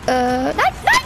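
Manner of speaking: rising panicked no; panic cry. Real, not acted. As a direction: shriek of alarm as she falls. Figur stürzt ab. (panischer Aufschrei)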